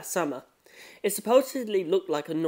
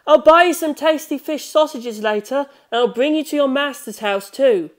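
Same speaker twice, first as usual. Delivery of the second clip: higher, sweet coaxing call; calling to the cat; 9 semitones higher, 8 dB louder than usual. Acted. Narrator calling to the cat, promising fish sausages, coaxing. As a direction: coax the cat kindly, voice lifted. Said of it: "I called out to the cat".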